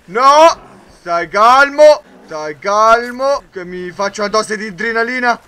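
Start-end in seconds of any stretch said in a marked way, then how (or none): 0.1-3.4 loud, slow panicky stai calmo. Real, not acted. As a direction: shout calm down while plainly panicking. Panicking while telling himself calm. (panico, urlato e lento)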